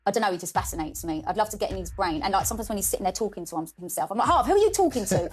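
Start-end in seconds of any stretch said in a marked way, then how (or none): 4.3-5.3 higher, louder call to her son. Retold or imitated. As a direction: call across the room, curious. Mum calling to son.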